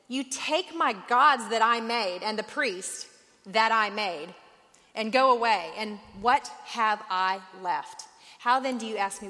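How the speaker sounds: indignant protest. Acted. Micah protests losing his gods.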